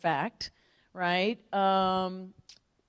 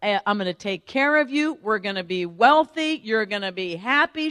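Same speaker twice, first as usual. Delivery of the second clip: excited daughter; 2 semitones higher, 7 dB louder than usual. Retold or imitated. Daughter calling mom after the meeting, excited. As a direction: burst out with big news, acting it out. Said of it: "I was so excited".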